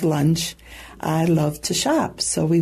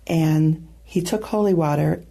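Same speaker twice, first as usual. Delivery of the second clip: ordinary delivery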